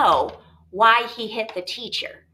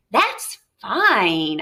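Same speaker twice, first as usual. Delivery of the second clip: heartily. Acted. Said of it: "I said heartily".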